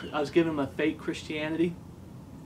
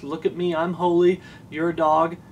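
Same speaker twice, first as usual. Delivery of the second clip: self-righteous scorn; 5 dB louder than usual. Retold or imitated. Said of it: "They have that attitude".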